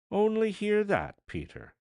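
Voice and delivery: bright, high, loud cry of delight; delighted exclamation. A narrator's reading. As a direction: she can hardly believe the good news.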